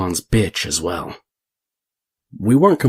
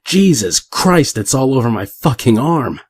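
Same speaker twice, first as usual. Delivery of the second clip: horrified yell; 5 semitones higher, 7 dB louder than usual. A narrator's reading. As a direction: yell it out in disgusted alarm. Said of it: "and he yells".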